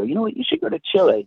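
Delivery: high, bright-eyed urging voice; eager stranger's advice. Retold or imitated. Stranger urging the wanderer to try Chile, high and keen. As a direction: pitch it up like a stranger insisting.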